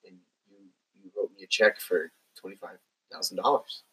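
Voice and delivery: halting, mildly choked-up imitation; understated quote of someone getting emotional; emotional retelling. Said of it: "she starts getting all emotional".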